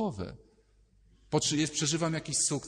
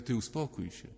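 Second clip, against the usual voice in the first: put-on soft firm hush to a child; calming the child; 2 semitones lower, 4 dB quieter than usual. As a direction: settle the kid down gently. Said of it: "to ja mówię".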